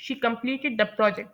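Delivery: slow, pitch falling on project; falling statement tune. Shown as a demonstration. Teacher modelling a statement, falling tune. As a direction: say it as a flat, sure statement. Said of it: "जैसे मैं कह रही हूँ".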